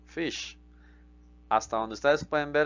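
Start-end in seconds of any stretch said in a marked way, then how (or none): 0.1-0.6 very slow, carefully spaced English; slow model sentence. Shown as a demonstration. Teacher modelling English slowly for the class. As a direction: spell it out slowly for learners.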